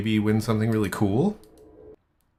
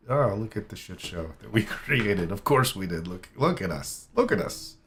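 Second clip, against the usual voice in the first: giggling mock quote. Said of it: "giggling at it".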